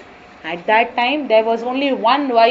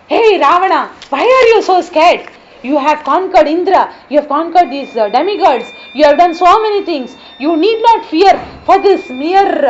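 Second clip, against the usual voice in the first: boastful demon; 3 semitones higher, 5 dB louder than usual. Acted. Demon friend rouses Ravana.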